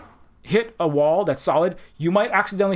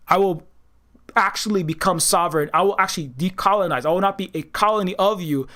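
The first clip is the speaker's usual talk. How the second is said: defiant declaration. Retold or imitated. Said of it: "It's like".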